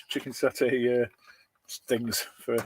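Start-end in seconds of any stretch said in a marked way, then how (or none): 0.1-1.0 chicken satay drawn out through a laugh; amused slow repeat of chicken satay. Shown as a demonstration. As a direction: savour chicken satay slowly with a chuckle.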